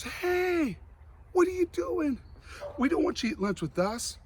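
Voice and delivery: a hammed-up mean eighth grader calling across the lunch room; imitated bully shouting at the new kid; mean girl yell. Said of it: "but she yells out loud".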